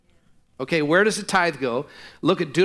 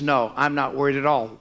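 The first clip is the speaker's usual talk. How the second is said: relaxed; 4 semitones lower than usual. Acted. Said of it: "he's totally relaxed".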